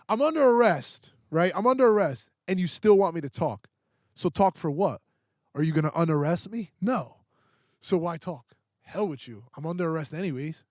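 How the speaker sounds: high, loud, heated complaint; mad rant. Retold or imitated. Reliving the arrest for a friend, high, loud and angry. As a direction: vent at the cop's logic, fired up. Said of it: "That I was mad".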